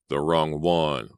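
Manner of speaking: slow, choked lament; a killer chokes out his grief. Acted. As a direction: force it out through a choking throat. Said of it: "a voice choked out".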